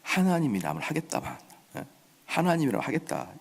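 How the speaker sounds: softly sneering mock king; quiet, dismissive sarcasm; sarcastic. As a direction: toss it off with understated scorn. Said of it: "아주 빈정거린 겁니다".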